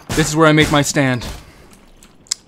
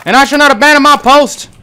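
mock soldier oath; 5 semitones higher than usual. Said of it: "doing that perimeter shit again".

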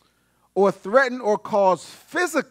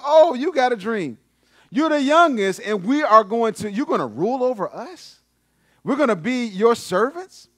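incredulous brothers; 3 semitones higher than usual. Retold or imitated. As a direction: act out brothers scoffing at the little brother. Jealous brothers mocking Joseph's dream.

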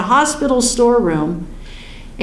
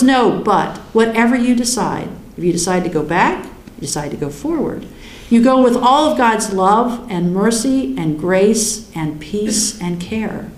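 gentle answer. Acted. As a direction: soothe like a loving voice. Voice of the divine answer.

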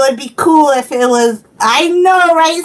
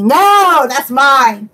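playful protest; much slower than usual. Pretend. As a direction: cry out a possessive no in jest. Mock possessive outburst over toy.

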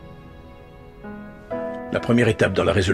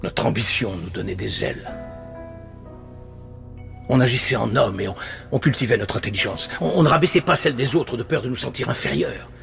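subdued, solemn nostalgia; wistful reminiscence. Acted. Panelist recalling what the country once was, wistful reminiscence. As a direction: come down from the rant into sober remembrance.

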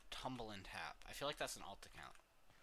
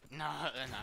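panicked yell; 5 semitones higher, 9 dB louder than usual. Real, not acted. Losing in game.

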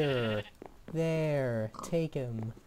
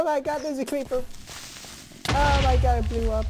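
shocked shriek; 10 semitones higher, 4 dB louder, faster than usual. Real, not acted. Creeper appears and explodes.

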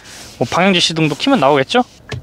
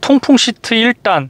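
slow clear command; 6 semitones higher, slower than usual. Shown as a demonstration. Voice command to car.

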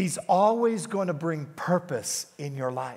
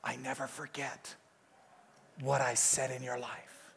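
much softer, slow, intimate voice; the Holy Spirit speaking; 4 semitones lower, 6 dB quieter than usual. Retold or imitated. The Holy Spirit reminds Gary of promises, softly and slowly. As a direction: speak it tenderly like a divine whisper. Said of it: "He said".

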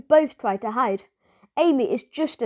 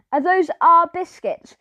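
higher, louder, eager question; very excited; 6 semitones higher, 4 dB louder than usual. Acted. Norman asking the owner about the biscuits, very excited. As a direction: burst out with excitement over the biscuits. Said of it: "very excitedly".

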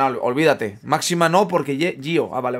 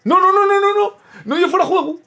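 excited shout; 6 dB louder than usual. Real, not acted. Celebrating goal not offside.

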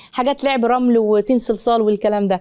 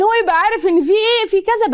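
gentle mother voice; 8 semitones higher than usual. Shown as a demonstration. Demonstrating mother talking to child.

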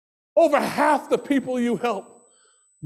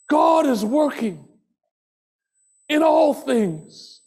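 proclaimed refrain; 5 semitones higher, slower than usual. Acted. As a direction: proclaim it to the room. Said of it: "repeated refrain, soft then loud".

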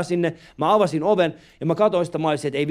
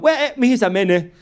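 imitating a foreign cab driver, slowed; lightly voiced driver asking where to; taxi driver voice; 4 semitones higher, 3 dB louder, slower than usual. Comedian voicing the taxi driver to the audience, lightly accented.

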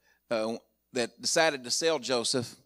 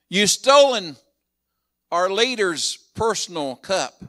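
louder, higher mock accusation; accusing soldiers; 4 semitones higher, 6 dB louder than usual. Soldiers catching the brothers, loud mock accusation. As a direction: bark the charge like a soldier.

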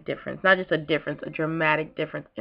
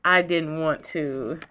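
choking up; slower than usual. Real, not acted. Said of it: "choking up and sniffling".

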